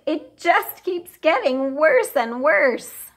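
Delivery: despairing whisper. A narrator's reading. Mother despairing.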